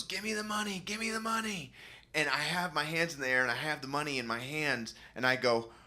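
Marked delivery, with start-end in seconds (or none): 0.0-1.7 gunman voice. Retold or imitated. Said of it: "And he goes".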